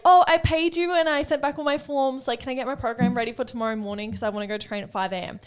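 high, loud eager client pleading; mock client voice. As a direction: play the pushy client begging for it now. Imitating client asking for program.

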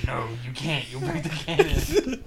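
hammed-up stern Miguel voice, cracking up; a laughing mock scold. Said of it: "Miguel goes".

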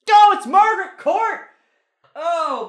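high, loud exclamation of shock; oh, it's Margaret Court, startled outcry; surprised cry. Real, not acted. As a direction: yelp at the reveal. Reveals answer, cries out.

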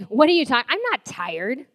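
loud, high, incredulous mock denial; indignant protest. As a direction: act out a stubborn, indignant comeback. Retold stubborn banter about being tired.

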